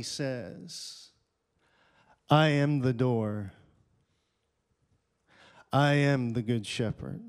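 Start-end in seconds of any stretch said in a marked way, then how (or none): 2.3-7.2 proclaimed. Acted. Preacher proclaiming Jesus' words.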